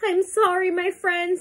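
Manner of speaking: high, mildly sorrowful storybook voice; sad apology. A narrator's reading. Elephant apologises to its friends, mildly sad. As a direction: apologise with a touch of sadness. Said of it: "said the elephant sadly".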